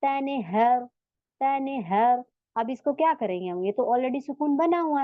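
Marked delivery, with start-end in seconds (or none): 0.0-2.2 "तनहर" recited carefully, ending on vowelless r; measured "तनहर", no vowel added at the end; original sukoon. Shown as a demonstration. Teacher repeating the unchanged reading, "तनहर" closed on r. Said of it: "same ऐसा ही पढ़ेंगे".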